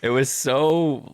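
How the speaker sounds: high, slow words through laughter; real laughter breaking up the words; laughing. Real, not acted. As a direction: talk while cracking up. Laughing at own retold cookie story.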